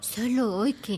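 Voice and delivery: tipsy, softened excuse; drunk. Acted. Mother making excuses to her daughter, drunk. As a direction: falter softly through a drunken excuse. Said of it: "¡Estás borracha!".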